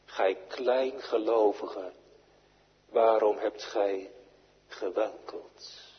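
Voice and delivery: slow, gentle rebuke, fading at the end; Jesus gently rebuking Peter; teaching and rebuking. Retold or imitated. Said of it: "Het is onderwijzend en bestraffend".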